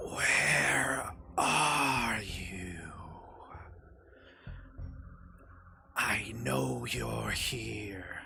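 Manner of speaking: barely audible, faint, low, drawn-out whisper. A voice in the wind calls to the players leaving the cabin, faint whisper. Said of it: "almost like a faint whisper".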